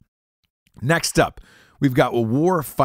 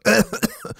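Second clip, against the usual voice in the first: imitated cough; 10 semitones higher than usual. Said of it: "she'll start coughing".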